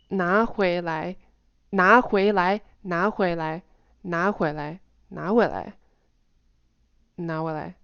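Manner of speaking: "拿回来" with every rising tone clearly made; repeated deliberate "拿回来", gradually tightening; stressed tones. Shown as a demonstration. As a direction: stress "拿回来", full swing on each syllable. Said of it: "I'm still stressing the word".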